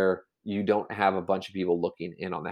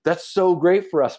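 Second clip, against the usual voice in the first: imitating a gushing neighbor, higher pitch; hammed-up glee, pitched up; mock delight; 8 semitones higher, 4 dB louder than usual. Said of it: "And they're like".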